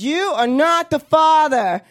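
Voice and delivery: slow, drawn-out verdict; lightly voiced host reveal; mock talk-show host. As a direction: announce it like a TV host. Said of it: "And he goes".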